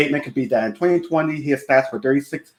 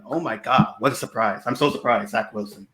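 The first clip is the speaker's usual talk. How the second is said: sarcastic surprise; 3 semitones lower, 5 dB quieter than usual. Acted. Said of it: "it's sarcasm. I'm being sarcastic".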